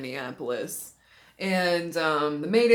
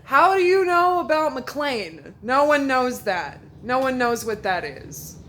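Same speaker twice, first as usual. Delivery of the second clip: higher, louder, slower amazed question; excited disbelief; 6 semitones higher, 6 dB louder than usual. Retold or imitated. Asking the stranger how he knows the hospital, loud and amazed. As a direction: press him, amazed, on each word. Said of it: "And I said".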